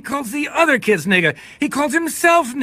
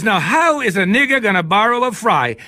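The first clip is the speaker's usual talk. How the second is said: mock inner voice. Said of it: "It was".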